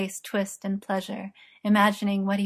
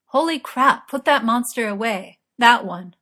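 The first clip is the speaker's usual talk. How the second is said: startled exclamation; 3 semitones higher, 7 dB louder than usual. A narrator's reading. Merlin reacting to his partner's offer, startled and loud. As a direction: blurt it out, taken aback.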